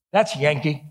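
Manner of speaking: lightly imitated Texas drawl. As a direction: rule it out like a Texan janitor. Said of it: "strong Texas drawl".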